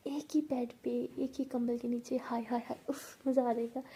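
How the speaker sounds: whispery, lovestruck musing; happy daydreaming. Acted. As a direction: daydream aloud with longing. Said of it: "ऐसे सोच के बहुत ज़्यादा खुशी". (ख़ुशी से सपनों में खोई आवाज़)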